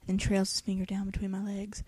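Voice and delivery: hushed whisper. Acted. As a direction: read it under your breath. Reading in a whisper.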